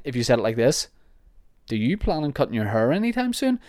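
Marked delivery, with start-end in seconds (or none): 1.7-3.6 pointed, sneering question with a higher pitch; snide. Shown as a demonstration. Listener asking about his hair, snide and spiteful. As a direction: lean on it with a sneer. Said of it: "Then F you right back, mister".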